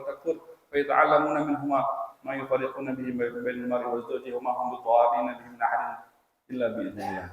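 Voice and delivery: level-toned, flowing Arabic recitation; Quran recitation. Acted. Preacher quoting Al-Baqarah to the congregation, level Quran recitation. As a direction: recite the verse steadily on an even tone.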